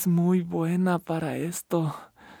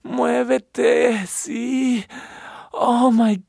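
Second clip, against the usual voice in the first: passionate urging; 3 semitones higher than usual. Acted. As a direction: cry out in rising passion. Lover urging climax, shouting.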